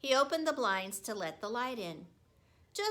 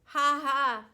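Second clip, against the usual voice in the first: loud hearty ha ha; laughing; 4 semitones higher, 9 dB louder than usual. A narrator's reading. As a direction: laugh it out, pleased. Aldo laughing.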